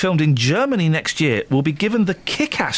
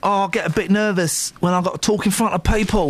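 Cockney voice; 4 semitones higher than usual. Pretend. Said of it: "I'm doing a Cockney voice".

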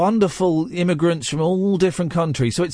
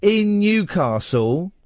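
deliberate rebuttal; 4 semitones higher than usual. Real, not acted. Host spells out his objection.

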